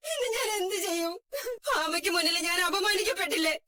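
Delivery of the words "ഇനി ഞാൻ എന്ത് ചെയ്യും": tearful helpless question; crying. Acted. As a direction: sob it out, hopeless. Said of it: "അമ്മ എന്തിനാ ഇങ്ങനെ കരയുന്നേ?". (കരഞ്ഞുകൊണ്ട്)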